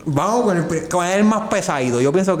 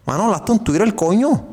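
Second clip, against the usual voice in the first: calling out to a friend; 6 semitones higher than usual. Pretend. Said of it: "le voy a decir".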